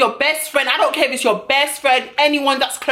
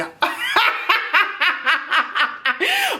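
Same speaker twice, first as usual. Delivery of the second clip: real laugh; 6 semitones higher than usual. Real, not acted. Laughing at her own story.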